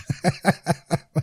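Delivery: high real laugh breaking out; can't hold back the laughter; laughing fit. Real, not acted. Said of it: "Ça me fait beaucoup rire".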